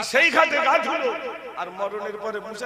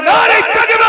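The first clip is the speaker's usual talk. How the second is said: full-force high rallying shout; even louder takbir; 11 semitones higher, 16 dB louder than usual. Real, not acted. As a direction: belt out the slogan at the top of your voice. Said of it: "আরো জোরে".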